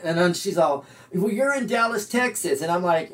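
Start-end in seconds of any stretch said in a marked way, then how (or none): 1.1-2.6 higher, matter-of-fact woman; lightly voiced woman, higher; co-star's voice. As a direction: tell him where he is, pitched up. Co-star answering the pirate.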